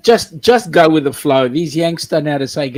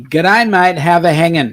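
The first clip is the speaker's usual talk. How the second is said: ocker Aussie accent. Shown as a demonstration. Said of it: "you gotta do it properly".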